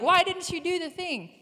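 high, whining protest; whiny demand. Retold or imitated. She voices her complaint to the Lord, high whine. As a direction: whine it at God like a child.

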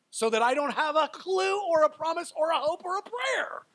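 high, loud, driving list; emphatic helplessness. Real, not acted. Preacher admits he is handcuffed by the Lord, emphatically helpless. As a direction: push each item out at a high pitch.

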